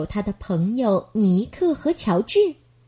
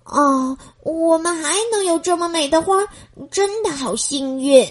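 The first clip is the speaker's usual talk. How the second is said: relieved sigh; 4 semitones higher than usual. Acted. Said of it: "尼克舒了一口气说".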